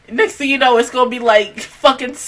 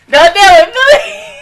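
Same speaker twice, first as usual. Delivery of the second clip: higher, louder crying plea; real tearful pleading; 12 semitones higher, 9 dB louder than usual. Real, not acted. Viewer pleading with the character on screen. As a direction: beg the character through tears.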